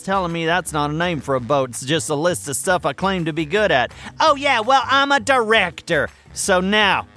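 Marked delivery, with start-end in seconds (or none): 4.2-6.1 a touch louder, insisting he is a director; oh yeah well, I'm a director, said defiantly; defensive retort. Acted. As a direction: push back at Carl with a huffy insistence. Retort after Carl corrects him.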